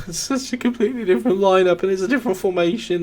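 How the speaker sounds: high-pitched, laughing through the words; amused disbelief. Real, not acted. Laughs at unexpected lineup.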